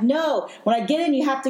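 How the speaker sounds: high, pressing plea to leave; urgent fear. Retold or imitated. Fleeing woman begging her ex to drive off, high and urgent. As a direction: tell him to go now.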